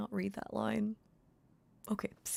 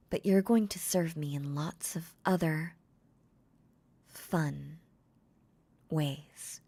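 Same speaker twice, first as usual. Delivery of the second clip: possessive mistress; 5 dB louder, slower than usual. Acted. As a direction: claim him as your property. Makima claiming her servant.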